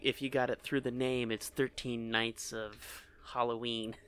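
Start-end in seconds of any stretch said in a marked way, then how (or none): 1.3-3.9 slow and clear. Shown as a demonstration. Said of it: "Make sure it's super, super clear".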